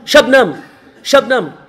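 half-hearted shout of a madman calling his love; mock shouting. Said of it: "they saw a man shouting".

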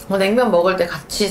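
slightly covered mouth; speaking with fingers at lips. Real, not acted. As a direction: hand partly covering mouth. Seen 0: fingers touch lips for first second, then hand lowers.

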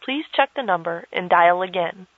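automated phone recording voice; disconnected number message. Acted. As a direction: read it like a telephone intercept recording.

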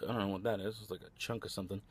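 talking while crunching ice; words round a mouthful of ice; mouth full of ice. Real, not acted. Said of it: "Sorry, I'm crunching ice".

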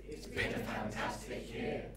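hands crossed. Shown as a demonstration. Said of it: "So, it's been a fantastic year. Ready?".

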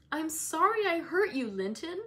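high, loud, distressed apology; anguished plea, moderately played; racked beyond endurance. A narrator's reading. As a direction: blurt out the apology, unable to bear it. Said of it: "racked beyond endurance".

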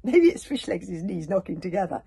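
sneer, but your nerve is slipping. Acted. Snotlout, shaken by the knocking, sneers half-heartedly. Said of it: "suggested Snot That ... less than his usual swagger".

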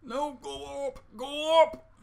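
loud high urgent plea; urgent shout. Real, not acted. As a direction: push them upward, urgent. Urgent to escape drowning.

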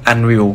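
Unwill said as un-will, two syllables. Shown as a demonstration. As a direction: pronounce the brand Unwill clearly. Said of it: "อ่านว่า". (ออกเสียงว่า Unwill อัน-วิล)

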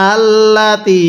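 slowly recited model word; recitation demo. Shown as a demonstration. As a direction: recite it for students to repeat. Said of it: "হ্যাঁ, আমার সাথে পড়ুন।".

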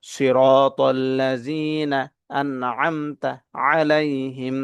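very slow, measured recitation with long vowels; Quran recitation. Shown as a demonstration. Teacher reciting the whole verse for learners to follow, slow and drawn out. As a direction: recite slowly, holding the last syllable. Recites the joined phrase as a model.

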